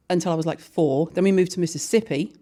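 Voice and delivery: ordinary talk, nothing marked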